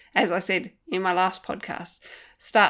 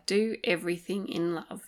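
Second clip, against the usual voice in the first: softer, tender repeat of "Do everything in love"; 3 dB quieter than usual. Shown as a demonstration. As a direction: let "Do everything in love" settle gently. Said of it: "a beautiful phrase to live by".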